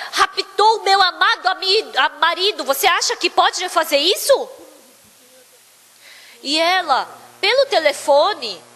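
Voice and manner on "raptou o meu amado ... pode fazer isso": higher-pitched indignant challenge; retold indignant protest; arguing. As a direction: confront the kidnapper, mildly heated. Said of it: "Ela começou a discutir com ele".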